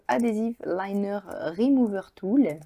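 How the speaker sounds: English product name with a French accent. Real, not acted. Vlogger showing viewers a tool, French-accented English. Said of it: "avec mon bel accent".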